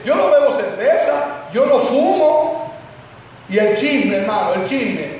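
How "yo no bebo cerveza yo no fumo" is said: higher, smug voice of a pious member; mock the holier-than-thou believer; self-righteous churchgoer. Preacher mocking a smug churchgoer's boast. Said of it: "hay gente que dice".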